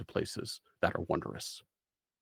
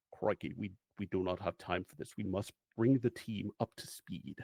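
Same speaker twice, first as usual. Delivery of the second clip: exasperated; 3 semitones lower, 5 dB quieter than usual. Acted. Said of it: "rolls their adorable eyes and says".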